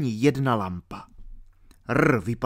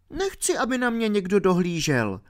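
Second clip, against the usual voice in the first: put-on higher girlish objection; protesting girl; 9 semitones higher than usual. A narrator's reading. Alenka objecting to R watching over her. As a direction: push back, a bit offended. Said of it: "ohradila se Alenka".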